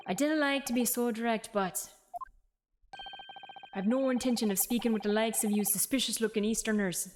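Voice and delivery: brusque put-on Scottish governor; rough Scottish accent. Governor refusing to speak with visitors, rough Scottish accent. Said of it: "they write it as, like, a Scottish person".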